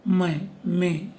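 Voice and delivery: मैं and में with nasalised vowels; slow demo of मैं, में nasal endings; nasal vowels shown. Shown as a demonstration. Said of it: "जैसे".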